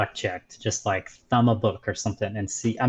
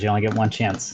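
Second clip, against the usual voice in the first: ordinary delivery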